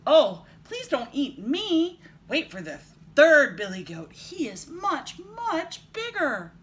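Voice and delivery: loud, high, drawn-out plea; middle goat pleading. A narrator's reading. Second goat begging the troll, pleading loudly. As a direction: beg loudly, stretching the key words. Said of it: "his voice was not so small".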